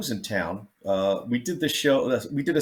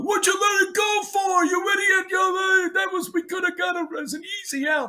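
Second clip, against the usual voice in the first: angry yelling. Retold or imitated. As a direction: bark it like an angry teammate. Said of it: "they're all yelling at me".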